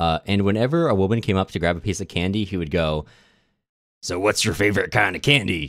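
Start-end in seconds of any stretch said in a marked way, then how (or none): 4.0-5.7 put-on chatty old man tone. Retelling how an old guy at a bar spoke to women, imitating the old guy's tone. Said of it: "roughly that tone of voice".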